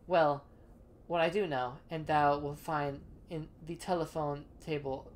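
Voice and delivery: lightly voiced archaic landlord, measured; a hint of a stately Shakespearean host; old-timey formal speech. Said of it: "When did you start talking like this?".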